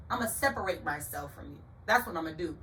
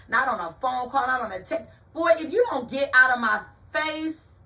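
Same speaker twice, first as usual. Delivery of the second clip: louder, higher, telling him off; fed up; 4 semitones higher, 6 dB louder than usual. Retold or imitated. Telling off a pushy date, loud and fed up. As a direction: let him have it, rising loud. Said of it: "telling off the date".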